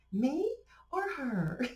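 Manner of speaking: laughing through the question, slow and drawn out. Real, not acted. Asking viewers who has the stronger drawl, laughing. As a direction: giggle the words out as you ask.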